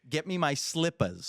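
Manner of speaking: grandma impression told to the kids; imitating grandma. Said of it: "now we're gonna speak like grandma".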